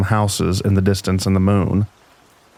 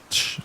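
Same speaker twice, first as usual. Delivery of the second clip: short, soft scratchy "ch"; quiet scratching noise made by mouth; imitated scratching sound; 9 dB quieter than usual. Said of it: "with some scratching".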